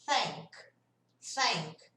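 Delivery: "thank" with the tongue out, blowing air; voiceless TH demo. Shown as a demonstration. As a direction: blown TH in "thank". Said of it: "aqui eu tenho". ("thank" soprando entre os dentes)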